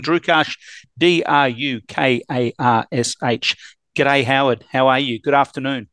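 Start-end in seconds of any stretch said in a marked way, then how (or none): 4.0-4.6 put-on light Australian accent on the greeting; Aussie accent. Host greeting his Canadian guest in a light Australian accent. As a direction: toss off an easy Australian g'day. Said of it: "My name sounds so much better with an Aussie accent".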